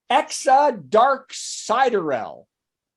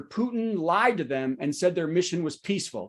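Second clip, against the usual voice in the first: serious news voice; 2 semitones lower, 4 dB quieter than usual. Shown as a demonstration. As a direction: read it like a sober news item. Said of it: "notice how my voice changes inflection".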